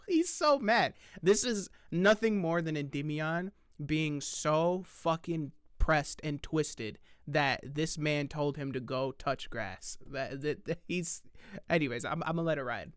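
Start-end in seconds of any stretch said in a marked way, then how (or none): 0.1-10.0 laughing. Real, not acted. Laughing at the angry critic.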